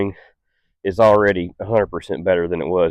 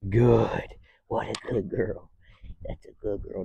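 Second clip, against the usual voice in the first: soft praise; 10 dB quieter, slower than usual. Real, not acted. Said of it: "I'll praise in a higher voice".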